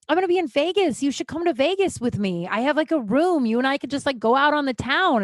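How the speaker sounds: lightly acted eager invite; eager invitation. Acts out roommate's Vegas invitation.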